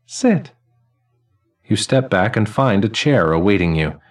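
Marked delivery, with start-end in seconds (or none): 0.0-0.5 put-on high, ringing elderly man's voice; chiming old man. Elderly man greeting the newly dead, high and chiming. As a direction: chime each word like silver cymbals and laughter.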